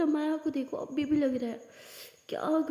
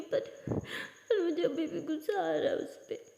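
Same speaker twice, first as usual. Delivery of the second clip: tearful anger; 2 semitones higher than usual. Acted. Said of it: "माया बोलती है".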